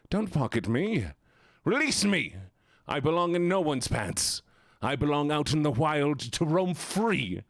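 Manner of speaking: small pocket creature pleading for freedom; tiny creature voice. Pretend. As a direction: beg like a tiny trapped critter. Plays Pocket Gene pleading.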